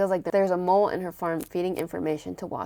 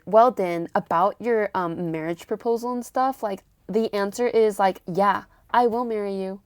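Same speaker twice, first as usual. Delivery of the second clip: mock-defiant, pointed retelling with a louder start; defiant jealous girlfriend; 2 semitones higher, 5 dB louder than usual. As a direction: act out a jealous girlfriend standing her ground. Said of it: "defiantly, in, like, this jealous girlfriend way".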